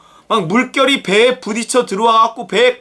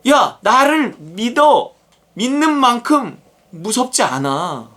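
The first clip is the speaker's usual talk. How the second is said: drawn-out, emphatic appeal; acted command, slow and weighty; slow firm urging; 4 semitones higher, slower than usual. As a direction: urge trust word by word. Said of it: "예수님이 지금".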